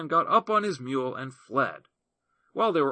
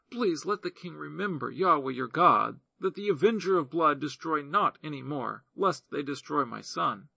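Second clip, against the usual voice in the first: lightly voiced pleading widow; 2 semitones higher than usual. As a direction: plead your case gently to the king.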